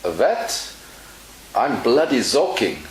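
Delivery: mock German accent, soaking said as "zoking". Teacher telling joke as the rescuer, German accent. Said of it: "the German replies".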